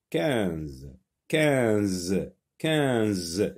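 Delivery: Quinze stretched, with a long buzzing Z at the end; drawn-out Z ending. Shown as a demonstration. Teacher sounding out Quinze for the Z sound, drawn out. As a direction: hold the final z of Quinze. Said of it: "Oui, j'entends Z".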